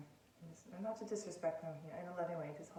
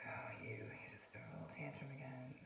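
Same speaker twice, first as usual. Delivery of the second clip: whisper; 2 semitones lower, 5 dB quieter than usual. Retold or imitated. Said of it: "It's just like".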